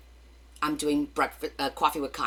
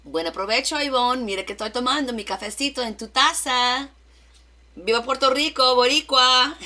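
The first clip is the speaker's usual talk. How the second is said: loud, high, exuberant Puerto Rican Spanish; Puerto Rican mode; 8 semitones higher, 7 dB louder than usual. Real, not acted. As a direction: cheer out to a friend in Puerto Rican Spanish, building louder. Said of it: "I had to go into my Puerto Rican mode".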